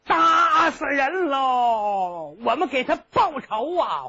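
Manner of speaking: long, stretched crying call; a boy running and calling for revenge; kid's drawn-out yell. Acted. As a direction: wail it out very slowly. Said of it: "一边跑一边喊".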